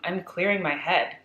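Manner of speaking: deadpan. Retold or imitated. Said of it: "Just very calm, very deadpan".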